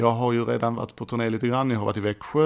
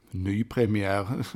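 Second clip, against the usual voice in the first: low, drawn-out word ending in a chuckle; slow tongue-in-cheek announcement; mock humble; 3 semitones lower, much slower than usual. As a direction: stretch it slowly with joking self-importance. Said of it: "ödmjukt, som om han".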